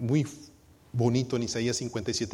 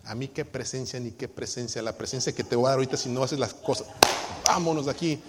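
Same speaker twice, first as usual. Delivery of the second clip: mock grumpy husband. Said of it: "un esposo gruñón".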